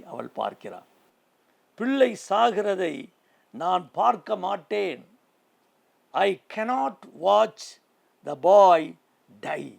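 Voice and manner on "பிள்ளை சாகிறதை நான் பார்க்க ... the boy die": slow, pleading lament, higher and louder; Hagar's anguished plea. Acted. Preacher voicing Hagar's grief to the congregation, pleading lament. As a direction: cry out as a mother who can't bear to watch. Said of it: "என்று சொல்லி".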